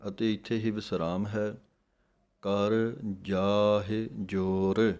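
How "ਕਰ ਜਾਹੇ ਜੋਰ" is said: ਜਾਹੇ in ਕਰ ਜਾਹੇ ਜੋਰ said with a clear h and lava sound; slow model recitation of ਜਾਹੇ; careful recitation. Shown as a demonstration. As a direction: stretch out ਕਰ ਜਾਹੇ ਜੋਰ syllable by syllable. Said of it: "ਜਾਹੇ ਪੜਾਂਗੇ, ਹਾਹੇ ਲਾਂ ਲੱਗੇਗੀ".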